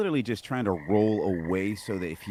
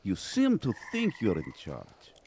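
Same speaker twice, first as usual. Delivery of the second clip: higher-pitched taunting merc voice; merc's pointed, pitched-up challenge; in-character merc; 7 semitones higher than usual. Acted. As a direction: needle the bandit in character. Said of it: "And I'm going to say".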